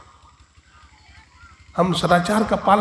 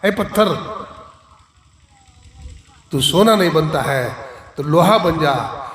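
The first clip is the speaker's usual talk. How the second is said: angry command. Retold or imitated. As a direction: snap at the stone in a temper. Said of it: "अब गुस्सा में क्या बोलता है".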